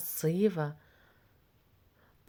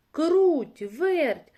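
higher, louder hail to two friends; rooster calling out; 8 semitones higher, 6 dB louder than usual. A narrator's reading. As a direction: call out loudly, high, to summon the mice. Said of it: "став гукати півник".

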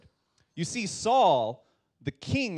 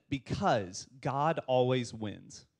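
David's answer; 4 semitones lower, slower than usual. Shown as a demonstration. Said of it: "And David said".

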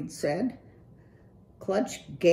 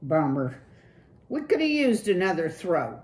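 higher, loose slacker-dude voice; Clutch, cool dude; 4 semitones higher, 5 dB louder, faster than usual. Acted. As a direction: play the laid-back streetwise rocker.

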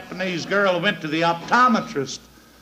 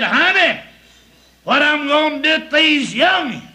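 pleading wife; 7 semitones higher, 5 dB louder than usual. Acted. Wife calling from shore.

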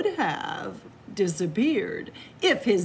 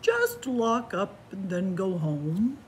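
other voice. Acted. Another character's line.

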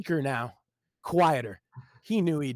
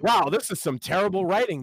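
smug voice; 3 semitones higher, 3 dB louder than usual. Acted. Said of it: "in that smug voice".

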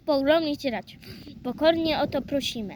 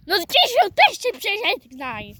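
coaxing call; 6 semitones higher, 4 dB louder than usual. Pretend. Urging the toy to cross himself.

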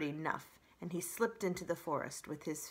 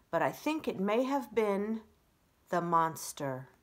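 owl giving grave report; 3 semitones higher, 7 dB louder than usual. A narrator's reading.

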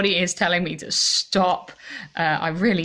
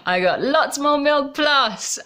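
excited; 8 semitones higher, 3 dB louder, slower than usual. Real, not acted. Laughing announcement of last gift.

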